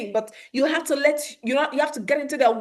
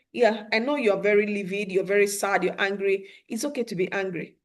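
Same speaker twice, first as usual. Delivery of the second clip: calm reassurance; 3 semitones lower, 3 dB quieter than usual. Shown as a demonstration. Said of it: "So let them know".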